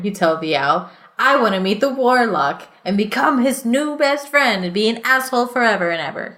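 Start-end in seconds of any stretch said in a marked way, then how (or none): 1.2-6.3 mocking paraphrase. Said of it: "'cause that's how you sound".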